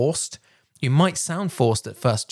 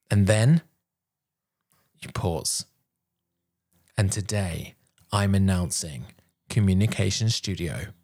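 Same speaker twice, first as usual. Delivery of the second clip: low, serious product announcement; slow and deeper; 4 semitones lower than usual. Shown as a demonstration. Announcing a product launch to the audience, slow and deeper. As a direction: drop down and let it weigh. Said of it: "it's slow and it's deeper".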